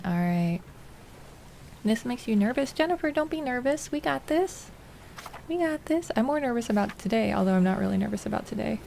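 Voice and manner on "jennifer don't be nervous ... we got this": playful reassurance. Real, not acted. Reassures Jennifer.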